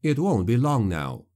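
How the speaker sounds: ordinary delivery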